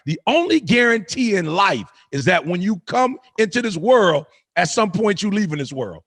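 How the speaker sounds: emphatic, measured sermon delivery; motivational preaching. Acted. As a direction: preach it with conviction, in rising and falling phrases. Preaches to listeners.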